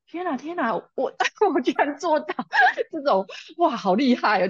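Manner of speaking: a mother amazed she kept her temper; amazed at herself. Retold or imitated. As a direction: marvel at your own calm. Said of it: "然后我就觉得".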